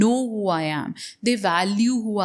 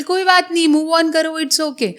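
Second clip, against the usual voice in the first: higher, breezy brush-off from the tea stall man; casual tea seller; 5 semitones higher, faster than usual. Retold or imitated. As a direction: toss it off like a stranger who doesn't care. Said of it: "बोले".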